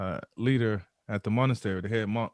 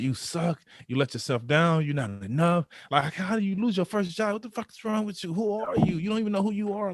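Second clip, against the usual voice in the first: inner critic; 6 semitones higher than usual. Retold or imitated. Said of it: "It's like".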